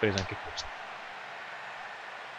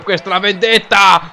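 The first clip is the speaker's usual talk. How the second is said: excited cheering; 6 dB louder than usual. Real, not acted. Celebrating revenge goal.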